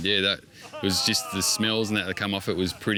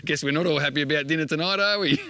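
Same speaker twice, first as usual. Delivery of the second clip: a touch higher, playful chicken voice; lightly voiced chicken; 6 semitones higher than usual. Chicken talking about being dinner, lightly raised voice. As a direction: keep the chicken's thoughts a little raised.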